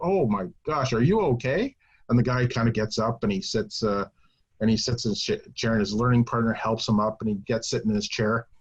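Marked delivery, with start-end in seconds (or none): 0.0-1.8 put-on concerned instructor voice. Retelling a story, quoting an instructor to a man who fell, imitating concern. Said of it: "he's looking at him very concerned".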